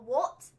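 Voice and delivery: "What?" with a British vowel and a short rise. Shown as a demonstration. Telling how she answers mid-sentence, with a British "What?". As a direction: snap out a British-sounding "What?". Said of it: "I'll say it just like that".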